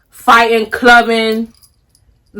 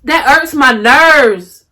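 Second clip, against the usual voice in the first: slow, emotional; 2 semitones higher, much slower than usual. Real, not acted. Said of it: "I'm about to cry".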